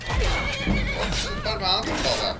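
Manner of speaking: high squeaky voice. Pretend. High slowed silly voice.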